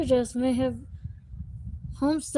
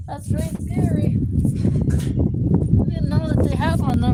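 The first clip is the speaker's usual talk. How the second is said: mock scared voice; 2 semitones higher, 4 dB louder than usual. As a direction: pretend to be spooked. Spooked by ghost story.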